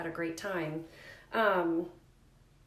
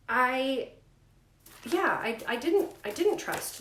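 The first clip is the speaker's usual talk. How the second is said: voice catching with emotion; 4 semitones higher, 5 dB louder than usual. Real, not acted. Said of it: "I might get emotional".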